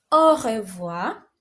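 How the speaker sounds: "Au revoir" said slowly, every sound clear; French R demo. Shown as a demonstration. Teacher models goodbye slowly for students to copy. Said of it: "so it is read as".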